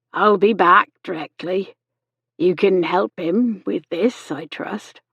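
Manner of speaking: the nurse's character voice, measured; Miss Chegwin, brisk instruction. A narrator's reading. Nurse leaves Laura to feed the patient, trusting. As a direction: hand over the task with trust.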